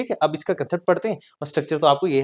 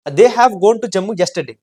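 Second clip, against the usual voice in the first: slow dictation; 2 semitones higher, 6 dB louder, much slower than usual. Shown as a demonstration. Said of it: "teacher dictates example".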